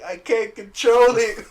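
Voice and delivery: high, loud, slow mock wail; hammed-up high wail of I can't control it; whiny Jean. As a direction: wail it out helplessly. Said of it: "And she's like".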